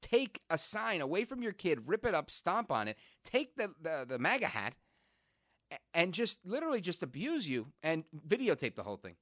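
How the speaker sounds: astonished. Retold or imitated. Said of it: "I was like".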